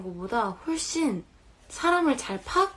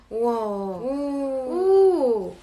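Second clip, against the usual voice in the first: amazed; 3 semitones higher, 6 dB louder, much slower than usual. Real, not acted. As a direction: gasp it out in wonder. Amazed by the result.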